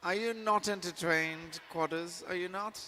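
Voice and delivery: gladiator quote. Retold or imitated. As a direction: goad the crowd like a gladiator. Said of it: "gladiator quote repeated".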